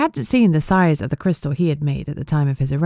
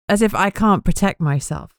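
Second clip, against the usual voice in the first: huffy; 3 semitones higher than usual. Acted. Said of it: "She huffed".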